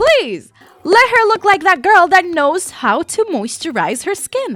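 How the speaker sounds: yelling, very high, loud and shrill. Giving drawing advice to viewers, the speaker is shouting. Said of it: "I'm sorry I'm shouting".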